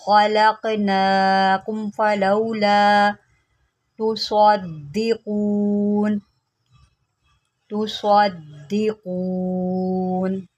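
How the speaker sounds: slow, drawn-out tajweed recitation; Quran recitation. Shown as a demonstration. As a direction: chant the verse slowly, held vowels. Recites the verse.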